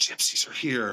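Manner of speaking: hushed, soft, whispery words. Retelling what an old lady employee said at the front desk: imitating a whisper. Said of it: "she said it whispery".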